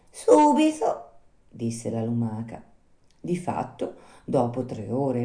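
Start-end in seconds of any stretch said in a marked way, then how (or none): 0.1-1.1 high, loud, drawn-out snail voice; slow snail. Acted. Snail at last recognising the puppet, slow snail voice. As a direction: let it dawn slowly, in a high snail voice.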